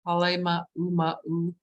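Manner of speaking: HALE MA U MA U in separate syllables, each U sounded alone; tentative Hale Ma U Ma U, every vowel separate; heard pronunciation. Shown as a demonstration. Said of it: "I've heard it pronounced".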